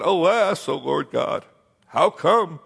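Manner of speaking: a leader crying out why, breaking toward a shout; Joshua's anguished plea. Acted. Preacher acting Joshua pleading with God in high distress. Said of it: "And Joshua said".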